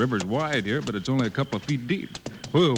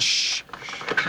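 urgent hush; sharp shh; shushing. Acted. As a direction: silence him fast. Hushing partner while hiding.

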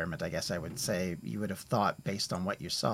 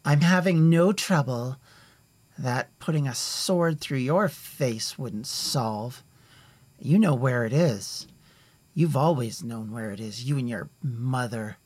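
sneering; 2 semitones higher, 5 dB louder than usual. Acted. Elf lady snapping at the memorialist, sneering threat. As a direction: spit it back at him with disdain. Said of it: "her, sneers".

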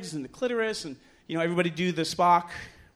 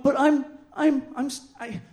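stammering, then a small high hurried plea; flustered protest; 6 semitones higher, faster than usual. Retold or imitated. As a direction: play a meek, overwhelmed objection. Flustered protest while being undressed.

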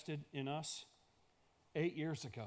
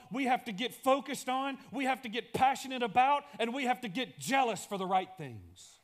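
higher and louder, pressing each clause; a big public call; loud preaching; 5 semitones higher, 5 dB louder than usual. Shown as a demonstration. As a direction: proclaim it to the room. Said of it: "same lines repeated quietly".

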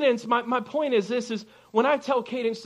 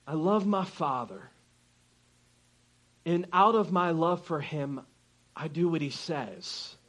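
sincere love; 3 semitones lower, 6 dB quieter than usual. Retold or imitated. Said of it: "But it's that".

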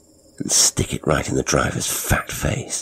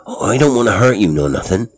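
flustered pleading; 5 semitones higher, 5 dB louder than usual. Acted.

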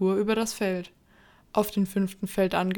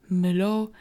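louder, startled question, understated fear; quaking with fear; 4 dB louder than usual. A narrator's reading. Katharina questions the dead dog's return, mildly fearful. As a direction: repeat the name in startled disbelief. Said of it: "Katharinas Stimme bebte vor Angst".

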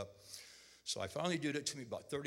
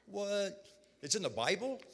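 disbelieving; 9 semitones higher than usual. Retold or imitated. Surprised at pastor's answer.

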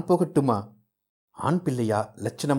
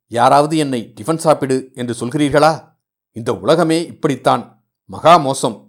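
louder, indignant grumbling; aggrieved complaint; 2 semitones higher, 5 dB louder than usual. Acted. Son protesting to the household, louder and aggrieved. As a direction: sulk aloud that nobody cares for you. Surya complains nobody feeds him.

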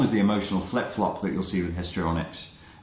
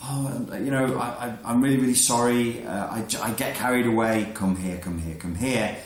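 mock pleading girl; 2 semitones higher than usual. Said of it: "she'll go from".

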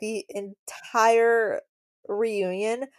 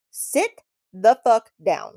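slow mock snap; 2 semitones higher, 5 dB louder, slower than usual. Retorting to her mock outrage.

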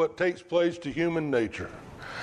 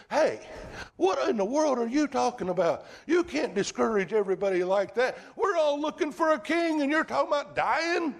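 grab his arm and scold him, pitched way up; a disciple protesting his master's talk of dying; Peter rebuking Jesus; 7 semitones higher than usual. Retold or imitated. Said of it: "Peter took him and began to rebuke him".

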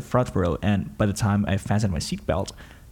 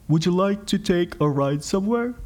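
a light Vietnamese accent, imitating the driver; hint of a halting Vietnamese English; broken English; 6 semitones higher than usual. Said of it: "he asked in broken English".

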